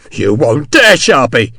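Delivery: a scared man trying to sound brave; frightened squeal. Acted. Hexwell held at the window, squealing at Sharp. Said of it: "Hexwell squealed".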